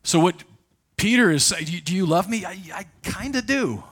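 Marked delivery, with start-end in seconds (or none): 1.7-3.8 sheepish reply. Acted. Mock replay of Jesus and Peter.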